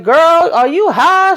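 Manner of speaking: high, slow incredulous question; acted disbelief. Victoria questioning Lily, high drawn-out disbelief. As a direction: stretch it out high in mock astonishment.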